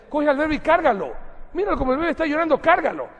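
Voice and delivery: put-on loud, high and fast coastal Ecuadorian voice, rushing as if the baby is crying; hammed-up coastal Ecuadorian from Guayaquil. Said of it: "en la costa, se dice". (acento costeño, fuerte, agudo y rápido)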